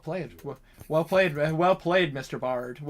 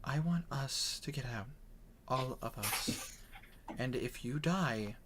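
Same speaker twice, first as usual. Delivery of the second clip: soft, slow threat, nearly whispered; menacing whisper; 10 dB quieter than usual. Acted. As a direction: lean in and murmur it slowly, like a threat. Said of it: "whispers to you".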